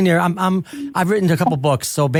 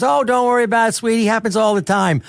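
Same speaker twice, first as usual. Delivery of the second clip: a light, slightly higher imitation of a kindly star; a country singer's voice; 5 semitones higher than usual. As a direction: lightly play the gracious celebrity brushing it off. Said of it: "she goes, in her voice".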